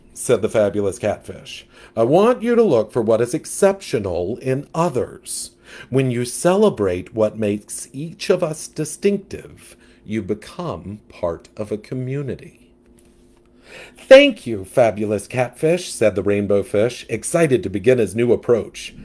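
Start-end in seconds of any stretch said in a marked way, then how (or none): 2.0-12.7 diva fish with attitude; sassy catfish. Acted. 14.0-15.9 much higher, timid little fish; small hesitant fish, pitched up; young fish voice. Acted.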